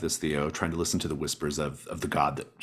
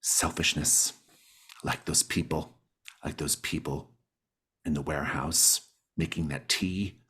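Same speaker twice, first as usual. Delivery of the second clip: mystic. Acted. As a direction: speak of the soil like a gentle believer. GM plays the mystic Gail.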